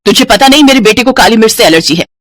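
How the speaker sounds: scolding a daughter-in-law; moderately angry elder's rebuke; angry mother-in-law. Acted. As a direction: tell her off crossly. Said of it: "Janaki गुस्से में आ जाती है".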